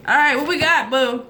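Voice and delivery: hyped up to see the card; excited call to the viewers. Real, not acted.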